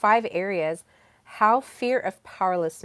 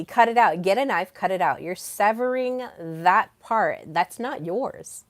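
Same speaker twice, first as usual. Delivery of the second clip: louder, forceful insistence; emphatic command; 6 dB louder than usual. Retold or imitated. Relaying her king's order to sever it, emphatic command. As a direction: drive the order home hard.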